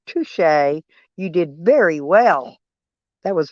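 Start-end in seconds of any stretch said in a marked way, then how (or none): 0.1-0.4 softer, tossed-off touché. Retold or imitated. Repeating it to the viewers, a much softer touché. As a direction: concede it again under the breath. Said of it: "Uh, my word".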